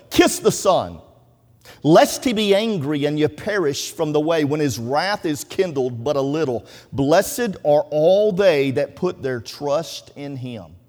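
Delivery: emphatic Bible reading, stretched out at the close; scripture recitation. Acted. Preacher reads the psalm to the congregation, emphatic recitation. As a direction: declaim the verse, slowing into a drawn-out final blessing.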